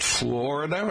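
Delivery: "Florida" as FLOR-ih-duh, questioning; "Florida" starting like "floor"; rhymes with sore. Shown as a demonstration. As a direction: say "Florida" with an "or" first syllable. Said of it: "It rhymes with Sorida".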